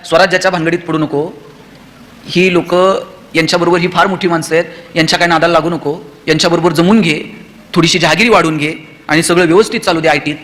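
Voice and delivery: mock cautious advice. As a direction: talk someone down in a low, level voice. Imagined mother discouraging her son.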